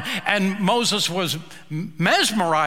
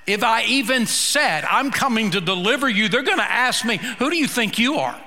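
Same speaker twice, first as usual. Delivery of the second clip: anxious Moses; 4 semitones higher than usual. Retold or imitated. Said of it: "Moses said".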